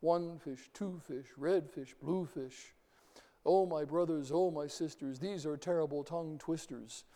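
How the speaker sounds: lilting sing-song recital; mock sing-song poetry reading. Shown as a demonstration. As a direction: bounce the lines like a nursery rhyme. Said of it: "recite poetry in a sing-song voice".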